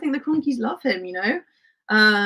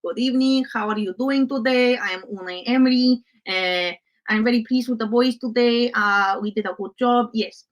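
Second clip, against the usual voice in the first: put-on a light Spanish-accented Emery, polite press-conference tone; lightly voiced Emery greeting the press after a win; a hint of Spanish accent, pleased manager; Unai Emery impression. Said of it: "Do an Emery voice".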